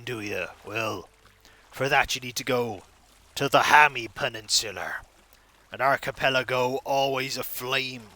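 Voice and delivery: lightly voiced cliché pirate; a hint of an old sea dog. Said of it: "Why do I sound like a cliche pirate?".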